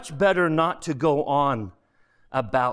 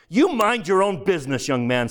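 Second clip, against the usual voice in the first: indignant rebuff; 6 semitones higher than usual. Acted. Ghost snubs the other.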